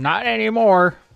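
shouting. A player answers the yelling town crier's news, yelling. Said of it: "I'm going to yell".

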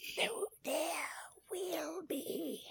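deliberately bad put-on voice, pitched very high. Repeating a promise of a new podcast episode: really bad Yoda voice. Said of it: "I was doing a really bad Yoda".

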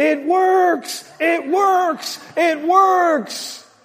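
put-on very high shrill scream, slow, words drawn out. Retelling how a boy ran home to his minister father: imitating Reinhard Bonnke screaming.

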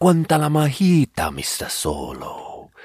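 very slow, swooping, put-on Finnish accent, alien-like. Showing how a Finnish accent sounds like Star Wars: Star Wars alien Finnish accent. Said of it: "Finnish is a good accent because it sounds a lot like Star Wars".

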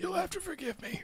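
very high, raspy, lost-sounding croak. Retelling a scene where a character has lost his voice: imitating a lost, raspy voice. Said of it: "What? Speak up!".

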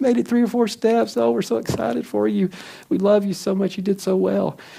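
overjoyed, high, excited screaming cheer. Describing parents cheering their child's first steps, imitating excited screaming. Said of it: "they're screaming like".

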